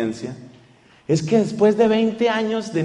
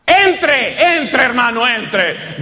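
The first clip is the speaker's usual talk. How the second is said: calling out; 5 semitones higher, much slower than usual. Acted. Calling the brother in.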